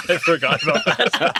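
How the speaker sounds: said through laughter; remembering the scene and cracking up; laughing. Real, not acted. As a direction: laugh the words out.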